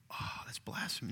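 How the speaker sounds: hushed, low imitation of a shocked listener; breath-only mock objection; mock scandalised whisper. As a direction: whisper it like a churchgoer appalled.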